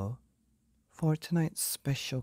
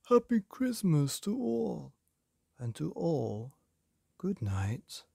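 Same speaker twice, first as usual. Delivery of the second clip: exclaiming Santa; 6 semitones higher, slower than usual. Acted. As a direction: call out the farewell as Saint Nick, then let it trail to a hush. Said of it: "I heard him exclaim".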